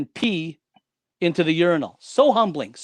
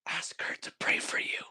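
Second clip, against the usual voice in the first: breathy unvoiced whisper in the ear; 11 dB quieter than usual. A mysterious voice whispering in his right ear. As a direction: whisper it like a secret voice.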